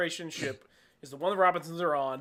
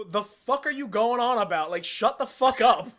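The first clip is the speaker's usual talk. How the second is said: exasperated; 3 semitones higher, 3 dB louder than usual. Pretend. Imagined exasperated reply.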